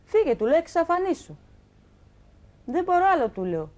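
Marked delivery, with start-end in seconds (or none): 0.1-0.4 sharp raised order to leave; retold shout. Wife ordering her cheating husband out of the house, raised shout. 0.6-3.3 loud, high, fed-up cry; retold shout. Wife telling her violent husband to vanish, loud exasperated shout.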